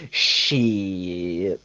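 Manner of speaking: one long, drawn-out, falling low curse; Isaiah Whitlock Junior catchphrase. Retold or imitated. Host quoting an actor's famous line, drawn-out catchphrase impression. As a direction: stretch the vowel right out, sliding down. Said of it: "he's also the guy who goes".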